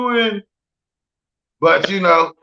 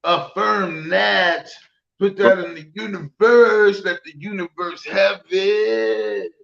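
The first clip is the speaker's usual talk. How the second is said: hippie voice; slower than usual. Acted. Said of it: "That was my hippie voice right there".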